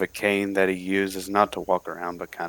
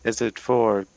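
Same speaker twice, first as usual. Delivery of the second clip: eager adventurer; 5 semitones higher, 4 dB louder than usual. Acted. Matt's character answers barkeep.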